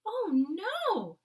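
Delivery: a sleeper crying out from a nightmare. Acted. The Queen cries out in her nightmare, loud and high. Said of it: "it cried out".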